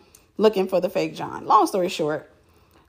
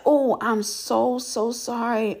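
slow, drawn-out sorry; embarrassed apology; 2 semitones higher, much slower than usual. Retold or imitated. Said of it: "I'm embarrassed".

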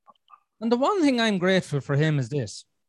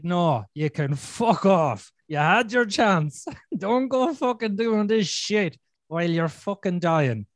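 slow, hard-edged telling-off, a touch of real anger; imagined retort; 2 semitones higher, slower than usual. Retold or imitated. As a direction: spell out the refusal slowly, each word weighed. Retort to dying father, imagined.

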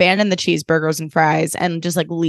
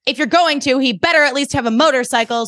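higher-pitched mock-angry retort; pissed-off mom; 6 semitones higher than usual. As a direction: imitate an annoyed mother's comeback. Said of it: "she's, like, really pissed".

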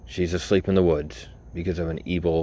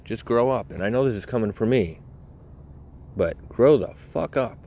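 fed-up rant; 4 semitones higher than usual. Real, not acted. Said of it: "ranting at critics".

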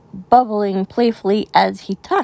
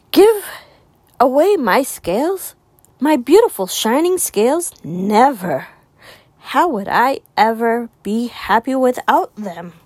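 outraged refusal. Acted. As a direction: refuse in shocked indignation. Rainbow fish refuses outraged.

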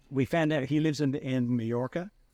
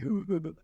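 airy, higher-pitched huffing; mock breathless wheeze; 7 semitones higher than usual. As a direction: imitate someone running out of breath. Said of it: "he would run out of breath".

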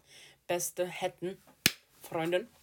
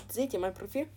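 excited; 7 semitones higher, 7 dB louder than usual. Real, not acted. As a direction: show it off eagerly. Showing profile, excited. (aufgeregt und laut)

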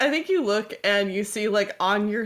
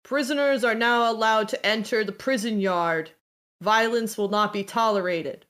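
intercom announcement; 3 semitones higher than usual. Acted. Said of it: "you hear over the comms".

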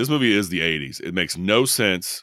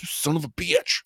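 mock dying husband; 8 semitones higher than usual. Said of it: "He's like".

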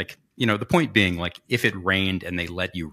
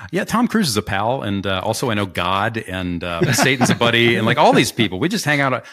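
louder mock-impressed sarcasm; sarcastic teasing; 6 dB louder than usual. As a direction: rib him for name-dropping, hamming it up. Teasing name-dropping.

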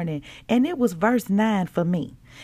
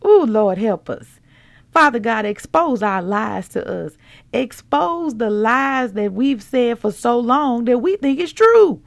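prayer. Acted.

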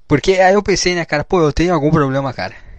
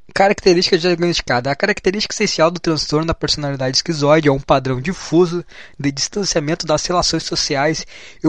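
slightly raised, steady reading voice; reading aloud; 3 semitones higher, 3 dB louder than usual. Real, not acted. Vlogger reading out schizoid disorder criteria, textbook read-aloud. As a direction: read out a clinical definition. Reads diagnostic text aloud.

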